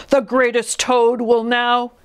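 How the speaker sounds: slow, grand announcer, cut off; drawn-out stage introduction; strange faraway voice. A narrator's reading. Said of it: "Then the voice said".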